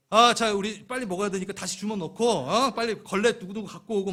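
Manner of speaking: rally the crew to clean up fast; bossy organizer. Acted. Preacher playing a churchgoer taking charge, loud and bossy. Leading gift giving orders.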